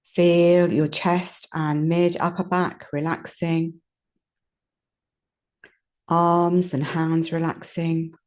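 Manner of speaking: calm guided relaxation with long pauses; unhurried yoga nidra voice, leaving space between phrases; guided meditation. Real, not acted. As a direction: lead them gently through relaxing, phrase by phrase. Leads a body relaxation.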